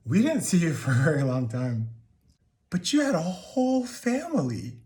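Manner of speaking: outburst rising high on the betrayal; loud start climbing into high-pitched hurt; hurt accusation. Acted. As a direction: throw it at them, wounded and incredulous. Confronts father about his other family.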